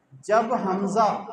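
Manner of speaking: جب حمزہ slowed, hamza stopped sharply; jerk on hamza. Shown as a demonstration. Teacher showing hamza sakin with a jerk. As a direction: give the hamza a sharp catch. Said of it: "ہم جھٹکا دیں گے".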